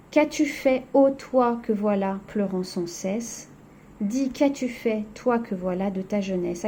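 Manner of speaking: lightly recited lament; poem reading. Acted. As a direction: read the verse as the poet's sad question. Rereads the poem aloud.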